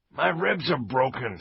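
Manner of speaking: complaining. Acted. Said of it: "Stokes complained".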